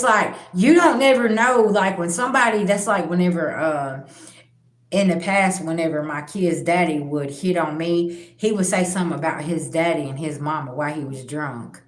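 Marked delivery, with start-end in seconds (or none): none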